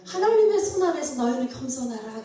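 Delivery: firm preaching repeat of a divine word; emphatic quote. Retold or imitated. Preacher repeating God's word to the congregation, emphatic. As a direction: drive the command home.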